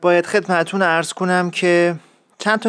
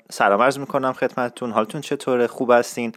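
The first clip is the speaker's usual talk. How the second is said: Isfahani faking Tehrani; 3 semitones lower, 3 dB quieter than usual. Shown as a demonstration. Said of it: "اگه بخوام تلاش کنم که برادون یخت اداشو در بیارم".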